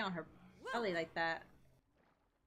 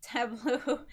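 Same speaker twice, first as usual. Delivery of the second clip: "Tableau" with a French accent, ta-BLOH, rising at the end; 2 semitones higher, 9 dB louder than usual. Shown as a demonstration. Gamer redoing the word "Tableau" in a French accent. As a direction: put a French lilt on "Tableau". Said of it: "now I'm gonna say that with a French accent".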